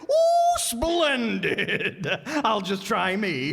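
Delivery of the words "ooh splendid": a very high, loud squeal, then a laughing shout; thrilled to bits at the news; delighted. Acted. Griffin hearing he is meat himself, squealing with delight.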